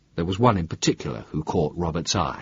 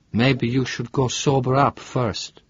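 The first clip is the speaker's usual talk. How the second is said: put-on gentle Italian-accented caution, a bit slow; a lightly voiced Italian woman wary of a drunk; soft Italian accent, careful and unhurried; 4 semitones higher, slower than usual. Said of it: "She had a soft Italian accent".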